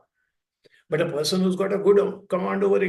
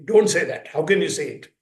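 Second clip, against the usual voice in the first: sharp, louder parental rebuke; scolding parent; 3 semitones lower, 4 dB louder than usual. Retold or imitated. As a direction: scold the child for saying it.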